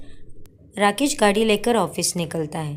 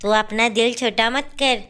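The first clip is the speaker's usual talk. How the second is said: mother-in-law; 2 semitones higher than usual. Acted. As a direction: comfort a crying daughter-in-law. (रोती बहू को समझाती सास की आवाज़)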